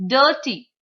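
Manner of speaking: DIRTY with DIR punched, TY light; first-syllable stress. Shown as a demonstration. Teacher showing two syllabic stress, first syllable stressed. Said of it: "stress on the first syllable".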